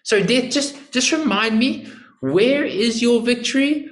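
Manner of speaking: high-pitched, falsely polite taunting questions; mocking. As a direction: needle a beaten enemy with mock apology. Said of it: "He's mocking death".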